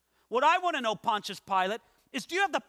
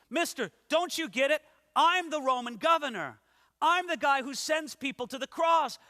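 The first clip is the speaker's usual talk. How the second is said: higher, louder, indignant governor; angry Pilate; 5 semitones higher, 4 dB louder than usual. Acted. Preacher voicing Pilate angry at Jesus' silence, indignant and loud. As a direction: make him feel who holds the power. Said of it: "Pilate's angry".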